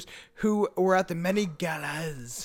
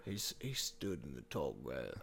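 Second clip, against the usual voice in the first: low, soft attempt at a Native American accent; much lower storyteller Native American accent; 17 dB quieter than usual. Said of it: "can you do a Native American accent?".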